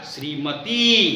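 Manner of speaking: श्रीमती said slowly with a long final "ee"; long final vowel. Shown as a demonstration. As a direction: stretch the last vowel of श्रीमती. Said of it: "बड़ी की मात्रा होगा यहाँ पर".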